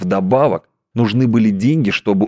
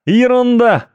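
scoffing; 4 dB louder than usual. A narrator's reading. First scoff.

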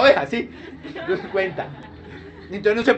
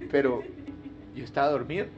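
drowsy confusion; 7 semitones lower, 9 dB quieter, faster than usual. Retold or imitated.

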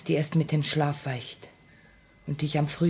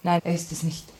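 frightened whisper. Acted. Dora whispering to Annenkov, frightened. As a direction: whisper with a racing heart. Dora's heart pounds.

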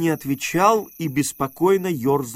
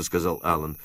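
ordinary delivery, nothing marked

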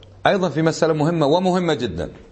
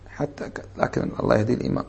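mock pious murmur; 2 semitones lower, 6 dB quieter than usual. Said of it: "كشف".

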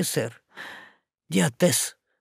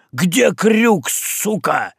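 furious shout; 5 semitones higher, much slower than usual. Acted. Boatswain threatens sailor after hitting him, shouting. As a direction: bark it right in his face.

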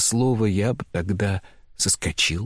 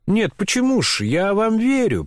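high, sneering contempt; mock him with lofty scorn; woman answers his vow with high sneering contempt; scornful; 11 semitones higher than usual. A narrator's reading. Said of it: "с таким презрением и ехидством".

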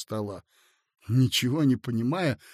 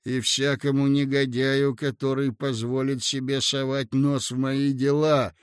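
imposing. Acted. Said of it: "внушительно сказал юноша".

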